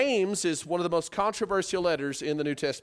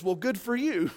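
sarcastic. Shown as a demonstration. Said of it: "'cause really what he's saying is".

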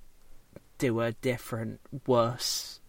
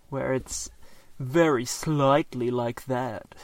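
slightly camp posh drawl; slow, affected posh anime dude; slower than usual. Retold or imitated. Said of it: "the slightly camp sounding posh anime voice".

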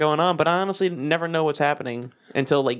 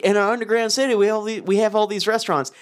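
mocking Canadian; 6 semitones higher than usual. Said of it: "I'm saying to rednecky".

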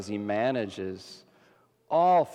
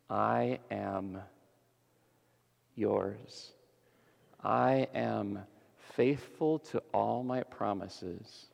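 tender God voice. Acted. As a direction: reassure them gently as a faithful God. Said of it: "Yahweh means".

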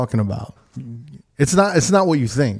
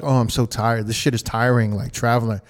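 mocking voice; 3 semitones lower, 3 dB quieter than usual. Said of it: "why are you talking in that voice?".

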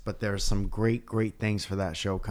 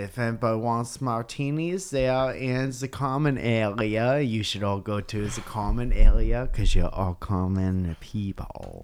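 put-on terrible German accent; 4 dB louder than usual. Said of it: "that's a terrible German accent".

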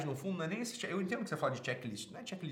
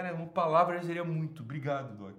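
mock humble gratitude; 5 dB louder than usual.

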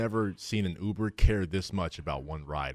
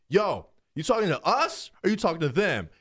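hammed-up street challenge; mock challenge; 8 semitones higher than usual. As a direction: friend challenging the driver, mock high. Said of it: "I'm like".

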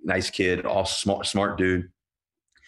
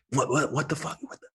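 imitating angry patient; 8 semitones higher than usual. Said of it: "He's pissed".

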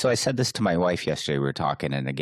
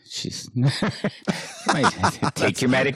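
breaking up with laughter, higher-pitched; laughing while talking; 8 semitones higher, much slower than usual. Real, not acted. Co-host joking that the diver needs medication, laughing hard. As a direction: struggle to get the words out through laughs. Cracks up at own joke.

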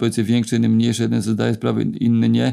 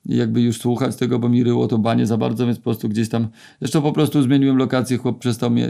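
ordinary delivery

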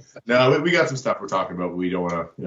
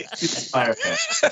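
Inspire Fest, slow, high and laughing in a mock French accent; hammed-up French accent; 10 semitones higher, much slower than usual. Shown as a demonstration. Retrying the festival name for his cohost, mock French. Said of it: "That didn't sound French at all".

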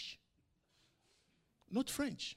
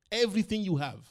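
a sudden loud preacher's cry, higher; loud emphatic repeat; 4 semitones higher, 10 dB louder, faster than usual. Acted. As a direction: hammer the point home to the church.

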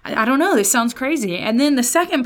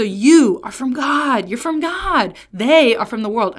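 "you" and "They" punched higher than the rest; emphasis on pronouns; 3 semitones higher, 4 dB louder than usual. Shown as a demonstration. Preacher recaps John's contrast, stress on you and They. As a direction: press on "you", then hit "They". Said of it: "the emphasis that I think".

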